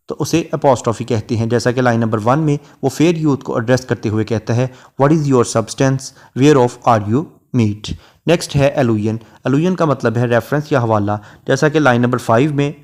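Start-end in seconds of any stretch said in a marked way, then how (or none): 5.0-7.9 slow, measured reading of a verse line; poetry recitation. Shown as a demonstration. Teacher reciting a Shakespeare sonnet line to students, slow and measured. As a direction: read each word of the sonnet out slowly. Teacher quotes apostrophe example.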